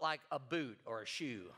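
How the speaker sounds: laughing through the words. Real, not acted. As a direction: chuckle it out. Laughing at catching a boot.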